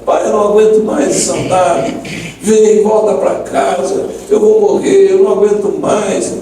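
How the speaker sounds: retold desperate appeal to dad; imitated desperate plea. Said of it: "chorando, mas assim, aos prantos, desesperada".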